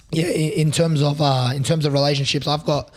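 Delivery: hoarse, raspy throat. Real, not acted. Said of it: "excuse me for my voice as well".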